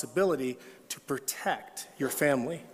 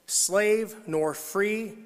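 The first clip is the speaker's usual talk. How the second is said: drawn out; 5 semitones higher, much slower than usual. Acted. Preacher stretches scripture phrase.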